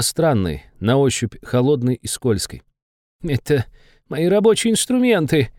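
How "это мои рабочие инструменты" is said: pleading demon. Acted. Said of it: "взмолился Бесов".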